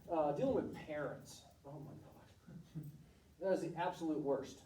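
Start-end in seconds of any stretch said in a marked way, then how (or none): 1.7-2.9 slow, much softer groan of dismay; under-the-breath exasperation; exasperated aside. Real, not acted. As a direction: drag it out like you're fed up. Complaining about helicopter parents.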